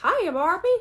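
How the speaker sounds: high put-on Ken voice from a song; a song quote. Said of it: "they're from a song".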